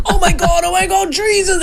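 half-laughing retold ouch; mild imitated alarm; startled yelp. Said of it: "And I just went".

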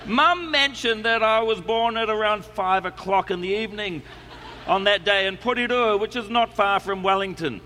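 put-on reading a letter in a New Zealand accent; a relaxed Kiwi accent all through. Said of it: "I'm going to do it in the New Zealand accent".

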